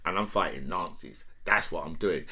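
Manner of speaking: a hint of a self-assured strongman; imitating Putin. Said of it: "I'm hearing from Putin".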